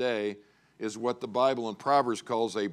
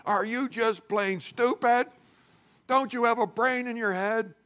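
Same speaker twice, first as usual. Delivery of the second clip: berating father; 10 semitones higher than usual. Retold or imitated. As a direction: imitate a dad at the end of his patience. Angry father berating son.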